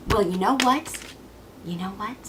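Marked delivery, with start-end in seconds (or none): 1.6-2.1 low, hushed challenge; quiet menace. Acted. Cassandra turning on Apollo, quiet threat. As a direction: drop it soft and threatening.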